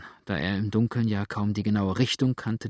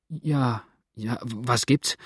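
calling out awake; slower than usual. A narrator's reading. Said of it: "rief jetzt Cook, der sich munter geworden".

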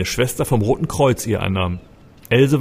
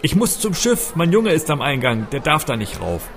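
high, urgent bellow that fades at the end; desperate shout; 6 semitones higher than usual. A narrator's reading. Narrator shouts to the crowd about his boy. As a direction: shout over the crowd in panic. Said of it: "brüllte".

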